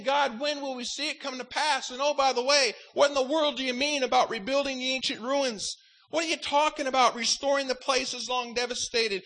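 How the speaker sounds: acted-out, mildly exasperated demand for answers; perplexed questioning. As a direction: question God in bewilderment. Acts out perplexed questions to God.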